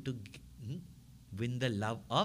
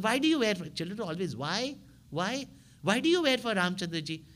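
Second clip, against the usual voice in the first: put-on curious child; 5 semitones higher than usual. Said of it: "She said".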